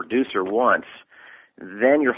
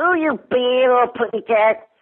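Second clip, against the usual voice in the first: very high little cartoon bird voice, slow, unhurried; 13 semitones higher, 4 dB louder than usual. Showing how a Tweety voice sounds before it is sped up: Tweety voice without speed-up. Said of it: "when I do Tweety, it sounds nothing like him".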